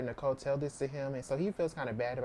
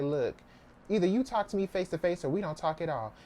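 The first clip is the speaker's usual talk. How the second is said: mildly exasperated retold ultimatum, slightly raised pitch; fed up; 4 semitones higher than usual. Nicole demands her mom talk face to face, mildly fed up. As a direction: act out being fed up, with mild force. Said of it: "gets fed up with the foolishness".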